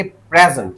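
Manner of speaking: प्रेजेंट with the weight on प्रे, the ending light; first-syllable stress. Shown as a demonstration. Teacher shows the class the noun, प्रेजेंट stressed on its first syllable. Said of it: "अगर इसका first syllable को stress किया गया".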